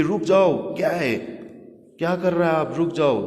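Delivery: high, loud shout to stop. Retold or imitated. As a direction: yell at the tub, soap in eyes. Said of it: "बिंकी चिल्लाने लगा". (चिल्लाकर रोकना)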